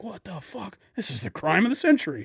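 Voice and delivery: loud, laughing mock disbelief; mock outrage. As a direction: ham up the jurors' shock, laughing. Jurors' mocking outrage, laughing.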